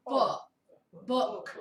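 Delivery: book held on its hooked vowel; teacher modelling book for the class; vowel demo. Shown as a demonstration. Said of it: "Everyone say book".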